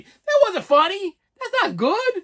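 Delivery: high, drawn-out protest; mock indignation. Son scolding mother for laughing, mock indignant. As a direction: scold with exaggerated disbelief.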